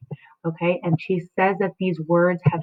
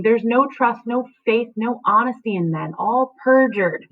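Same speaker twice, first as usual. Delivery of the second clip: a hint of the bitter old nurse, slowing on perjured; nurse's bitter complaint; 4 semitones higher than usual. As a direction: grumble it like the nurse. Reading the nurse's lines.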